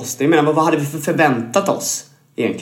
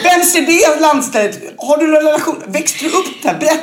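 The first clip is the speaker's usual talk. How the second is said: mock interrogation; 11 semitones higher than usual. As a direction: grill them like an eager stranger. Mock grilling someone about roots.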